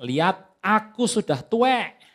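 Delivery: a hint of a dying old man giving orders; old Isaac speaking. Old Isaac tells his son Esau to go hunt, lightly voiced. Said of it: "Berkatalah Ishak".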